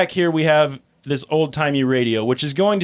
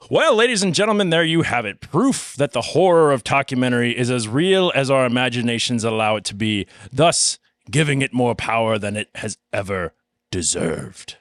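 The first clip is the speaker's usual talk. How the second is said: documentary narrator. Acted. Mock documentary narrator close.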